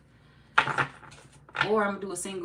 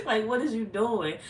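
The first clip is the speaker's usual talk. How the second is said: loud, higher, through laughter; laughing mock exasperation; 5 semitones higher, 6 dB louder than usual. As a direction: scold the screen while cracking up. Laughing through her acted rant.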